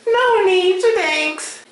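high, slow ventriloquist voice; talking with mouth closed. Pretend. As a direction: speak without moving your lips. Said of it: "You can talk without moving, moving your mouth".

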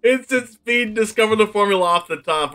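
real incredulous complaint; incredulous rant. Real, not acted. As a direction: rant at the luck, still reeling. Ranting about opponent's lucky draw.

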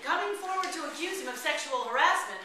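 words breaking up with laughter; laughing while reading the joke. Real, not acted. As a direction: still giggling into the line. Laughing through joke opening.

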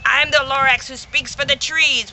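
loud sharp snap; indignant loud retort; snapped. Acted. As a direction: snap the words out at the Onceler. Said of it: "He snapped".

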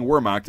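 Wehrmacht as WUR-mokt; English W. Retold or imitated. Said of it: "when I hear people saying".

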